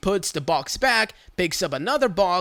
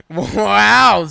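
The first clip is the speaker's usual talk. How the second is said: wow; 2 semitones higher, 8 dB louder than usual. Real, not acted. Reacting to parting comment.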